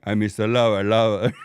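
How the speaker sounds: low Jamaican singer's voice; impression of a reggae singer. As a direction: growl it like a reggae singer. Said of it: "anybody that said Shaggy".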